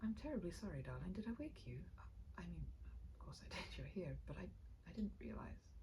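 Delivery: voice catching. Acted. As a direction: fumble through it, holding back tears. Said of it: "His voice caught in a traitorous fashion".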